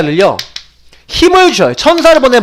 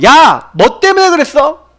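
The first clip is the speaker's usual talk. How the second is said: God questioning; 6 semitones higher, slower than usual. Retold or imitated. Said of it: "하나님 보여주시는 거예요".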